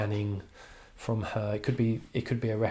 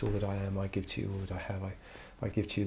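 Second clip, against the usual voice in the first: quick, softer recital of the marriage vow; hushed reading of the vows; 7 dB quieter, much faster than usual. Shown as a demonstration. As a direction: murmur it like a vow. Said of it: "I think you'll hear, um, echoes".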